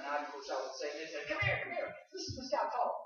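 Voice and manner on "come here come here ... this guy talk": high-pitched, eager beckoning; excited calling over. Retold or imitated. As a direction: imitate excited onlookers calling friends over. Midwesterners calling others over to listen.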